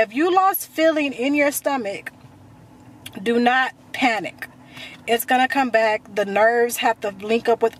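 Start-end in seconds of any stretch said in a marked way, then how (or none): 3.2-4.5 slow, deliberate stress on "do not panic"; emphatic reassurance. Real, not acted. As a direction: DO NOT PANIC slow, each word separate. Firm reassurance to worried viewers.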